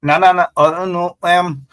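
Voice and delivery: mock stammering nonsense syllables; mock gibberish. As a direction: imitate a politician's senseless babble. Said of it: "when these vagabonds talk like that".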